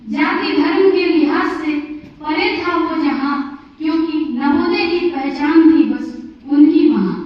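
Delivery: measured, rhythmic Hindi verse delivery; declaimed poem with falling refrain endings; poem recitation. Acted. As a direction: recite it line by line, pausing between phrases. Recites own poem aloud.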